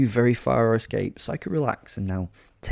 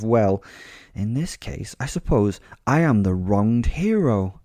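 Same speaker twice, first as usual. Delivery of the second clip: grand theatrical lecture, pitched up and emphatic; monologuing; 3 semitones higher, 4 dB louder than usual. Acted. Fighter giving beaten attackers sound advice, monologuing. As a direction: lecture them like a self-styled hero. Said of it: "I monologued at them now".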